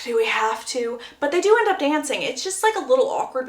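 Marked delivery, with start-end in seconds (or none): 0.0-1.0 mock groan of a reluctant boyfriend. Boyfriend asked to dance at prom, imitated groaning reluctance. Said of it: "Conrad groans".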